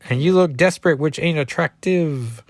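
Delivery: put-on lightly done Cajun accent; Gambit. Gambit advising Reptile about women, light Cajun accent. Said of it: "I was taking over Gambit".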